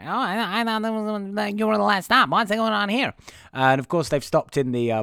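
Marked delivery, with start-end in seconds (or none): 0.0-3.1 higher puzzled voice; mock confused passengers; a hint of confused children; surprised kids. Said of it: "they're all like".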